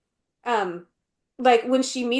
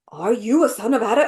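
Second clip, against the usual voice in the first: mock awed question, lightly scared; almost scared; 3 dB louder than usual. Imitating the American Queen meeting Edmund, almost scared. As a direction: imitate someone a little scared of him. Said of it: "almost like she's scared of him".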